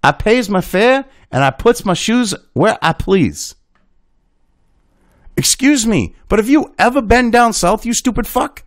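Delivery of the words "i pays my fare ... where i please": Southern dialect. Acted. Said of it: "a black character who speaks in an odd dialect".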